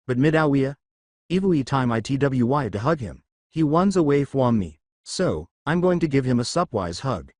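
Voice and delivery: put-on r said as w, childlike; cartoon hunter lisp; Elmer Fudd speech. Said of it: "why are you speaking with an accent?".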